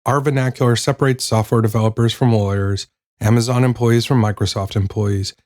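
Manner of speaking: measured reading of a chapter; audiobook narration. Acted. Host reads the chapter on vernacular to listeners, audiobook narration. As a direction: read it out as a book, sentence by sentence.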